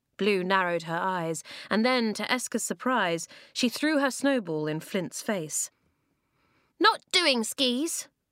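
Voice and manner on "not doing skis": sharp, high, snappish snapped delivery. Blue answers Flint after throwing a snowball in his face, snapping. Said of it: "she snapped".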